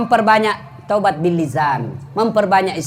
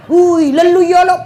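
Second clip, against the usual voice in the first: surprised exclamation; 9 semitones higher, 7 dB louder than usual. Retold or imitated. Chasing the chicken onto roof.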